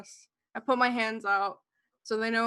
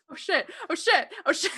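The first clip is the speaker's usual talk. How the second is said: laughing; 7 semitones higher, 3 dB louder than usual. Real, not acted. Player laughing, echoing ravens.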